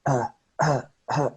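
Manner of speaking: "uh" as short separate lazy vowel sounds; "uh", the neutral schwa, said on its own; isolated schwa. Shown as a demonstration. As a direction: give three short, detached "uh" sounds. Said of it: "it's a sound that makes".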